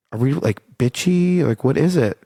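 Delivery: retold puzzled question, pitch climbing; baffled self-doubt.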